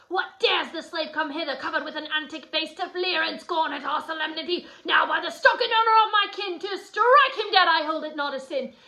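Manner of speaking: acted indignation, quickening and rising toward the end; hot-headed Tybalt. Teacher playing Tybalt spotting Romeo at the party, acted hot-headed anger. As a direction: build a mildly hammed-up outraged vow. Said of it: "very hot-headed, that Tybalt".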